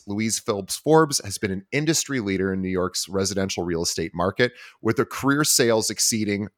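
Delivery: measured podcast bio read; introducing an honored guest from a script; host intro read. Acted. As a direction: read out the guest's credentials in even, polished phrases.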